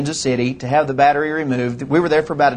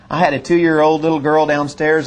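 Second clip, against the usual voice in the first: ordinary delivery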